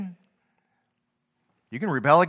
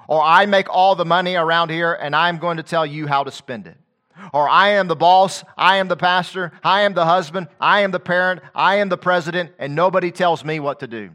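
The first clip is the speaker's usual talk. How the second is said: mock-proud voice, louder and higher; arrogant boaster; 3 semitones higher, 6 dB louder than usual. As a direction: act out a puffed-up boss, loud and smug. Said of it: "so arrogant or big-headed".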